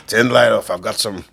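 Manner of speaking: loud, amused stab at Scottish; attempted Scottish accent. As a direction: do your best amateur Scottish accent. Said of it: "This is my attempt at a Scottish accent".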